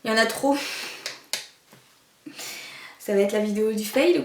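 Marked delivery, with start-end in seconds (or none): 3.0-4.2 laughing. Real, not acted. Laughing at her failure.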